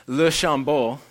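exaggerated posh French accent; snooty French accent. Shown as a demonstration. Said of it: "try to sound like a snooty French person".

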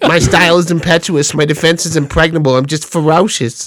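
a hint of the champ's voice; Mike Tyson. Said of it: "Mike Tyson doing his own voice is hilarious".

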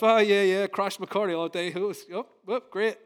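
mock cheerful, dripping sarcasm; sarcastic fake enjoyment. Preacher mocking fake joy over hardship, sarcastic. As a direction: pretend to love the misery. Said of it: "pretend that we're, you know, enjoying all the hardships".

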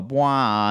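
imitating a trombone. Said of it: "The trombone would go".

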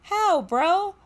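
high, loud disbelieving question; can't believe what she just read; incredulous. Real, not acted. Host reacting to Jackman breaking an extra's hand, incredulous.

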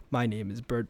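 low, soft monotone with almost no inflection; Bird Person voice. Retold or imitated. Recalling a cartoon character, in a low flat drone. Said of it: "he speaks like this".

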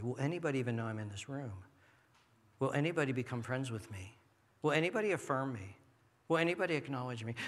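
anxious insecure person. Retold or imitated. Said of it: "The insecure person walks in".

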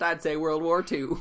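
put-on lightly drawled "I'd say World War Two" in a Southern accent; a hint of a Southern accent, bluffing. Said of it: "and also in a Southern accent".

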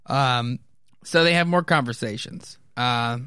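plain reading voice

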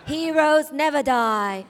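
slow emphatic hero line; corrected line. Shown as a demonstration. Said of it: "There we go. That was better".

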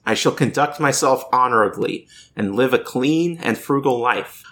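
measured, declamatory reading of a solemn pledge; creed recitation. Acted. Host reading the Octus Canon to co-hosts, formal recitation. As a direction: recite it like a formal oath, phrase by phrase.

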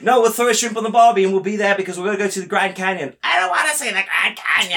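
mock Australian. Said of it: "The Australians?".

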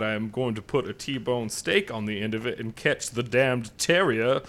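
a genteel Southern gentleman voice, hammed up; Southern gentleman accent. Podcast host opens the show in a mock Southern accent. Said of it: "something to be said for that accent".

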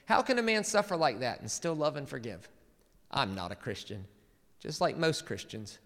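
a preacher reading a quote with a hint of Southern twang; Southern accent. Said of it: "I'm gonna do it in a Southern accent".

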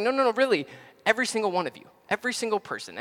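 emphatic insistence, pitched high and loud; making a point. Acted. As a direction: insist loudly, driving home EVERY SINGLE. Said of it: "I'm trying to make a point".

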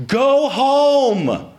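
sudden high yell out the window; mock yell at the dinging bell; shouted go home. Sleepy man yelling out the window at night. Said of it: "And so I shout out".

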